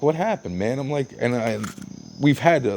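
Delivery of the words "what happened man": higher, worried question; retold alarm. To the bruised guy, a startled worried question. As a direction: ask what happened, startled and concerned.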